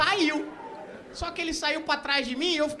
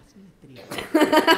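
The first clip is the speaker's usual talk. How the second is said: louder, slow insistent order; impatient order; 5 dB louder, slower than usual. Acted. Urging the man to light the sign, impatient. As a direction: press the cue hard, drawn out. Same cue, losing patience.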